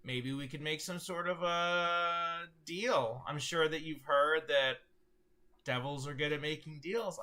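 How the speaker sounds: a hint of a scheming devil offering a deal. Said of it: "and he goes".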